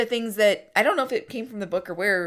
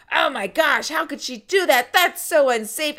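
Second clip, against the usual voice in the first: higher, mock-alarmed kids parroting; kids worked up; 6 semitones higher, 4 dB louder than usual. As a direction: imitate excited kids, pitched up. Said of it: "the kids started getting all worked up".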